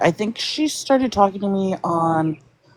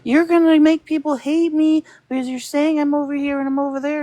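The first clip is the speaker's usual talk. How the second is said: high-pitched mock panic; freaked-out imitation; 10 semitones higher than usual. Retelling SBG's complaint about being called out, freaked-out imitation. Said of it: "freaked out and was like".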